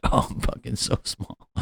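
small, high, airy voice; mock tiny voice. Comic riffing on a creepy video title, mock tiny voice.

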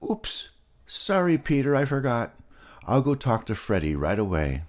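high and hurried embarrassed pig; high, quick sheepish pig; flustered Molasses. Acted. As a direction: rush the apology, caught out.

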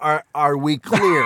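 slow "Are we clear" with a stumbling start; parental ultimatum. Acted. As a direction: deliver the warning slowly, close to laughing. Acted punchline of absurd parenting warning.

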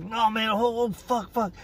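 high, breathless disbelief, fading off; can't take it all in; overwhelmed. Retold or imitated. Prisoner overwhelmed by the news, pitched high.

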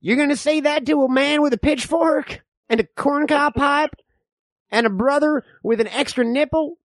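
lightly voiced distrustful old-timer; folksy backwoods codger spinning tales; old man. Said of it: "I'm the old man".

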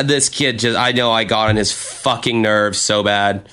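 ordinary talk, nothing marked

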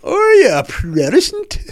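high, loud interrogating cop; mock policeman. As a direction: demand it like a suspicious peeler. Quoting a peeler's question.

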